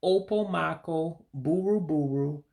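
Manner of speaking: slow, careful Igbo word; slowly. Shown as a demonstration. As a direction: spell out opomako buruburu slowly. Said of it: "So again, slowly".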